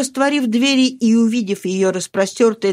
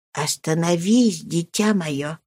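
gentle rebuke; 3 dB quieter, slower than usual. Acted. Nurse gently stops Mari.

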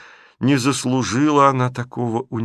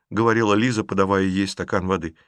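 plain reading voice

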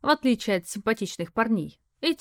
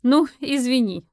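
forced apology; 4 semitones higher, 6 dB louder than usual. Acted. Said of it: "я выдавила из себя".

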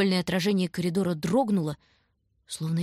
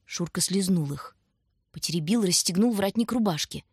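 usual speaking voice

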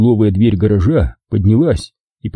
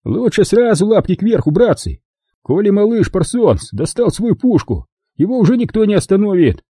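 smirking; 11 semitones higher than usual. Acted. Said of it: "ухмыльнулся".

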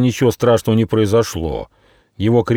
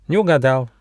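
higher, gleeful little hedgehog; enjoy their wrong guess; delighted verdict; pleased; 7 semitones higher than usual. Acted. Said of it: "обрадовался ежонок".

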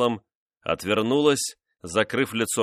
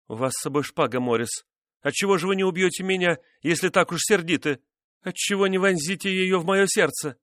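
high, fast desperate dare; desperate challenge; 10 semitones higher than usual. A narrator's reading. Wife daring husband to stab her, desperate.

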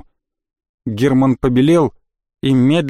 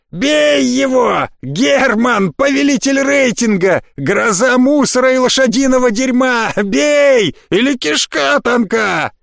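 high, slow jeering goad; high-pitched mocking shout; mocking taunt; 9 semitones higher, slower than usual. A narrator's reading. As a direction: egg him on with contempt. Jeering goading Herman to fight.

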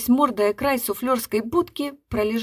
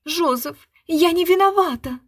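high, loud offended schoolgirl tone; 8 semitones higher, 4 dB louder than usual. A narrator's reading. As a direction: play a hurt boarding-school girl. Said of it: "тоном обиженной институтки".

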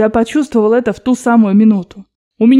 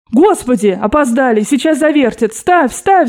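flustered urging; 3 semitones higher than usual. Acted. Grandmother urges the narrator to bet before the spin, flustered. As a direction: hurry him along before the wheel spins. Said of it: "захлопотала бабушка".

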